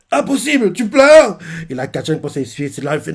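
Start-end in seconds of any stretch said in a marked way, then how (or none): 0.1-1.4 high, loud astonished outburst; can't believe your rival is crying; a mock-shocked cry, pitched up; shocked disbelief. Deku shocked at Kachan crying.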